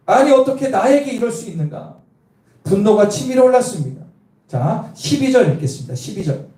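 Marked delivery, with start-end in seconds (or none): 0.1-2.0 higher, indignant mock outburst; a touch of retold indignation; mock angry general. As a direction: play the offended general, half-acted. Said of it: "화를 막 내는 거예요".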